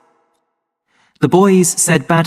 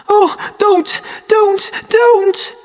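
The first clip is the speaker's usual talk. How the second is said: screaming plea; much slower than usual. A narrator's reading. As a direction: scream it out as the whip falls. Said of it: "Then Linda screamed".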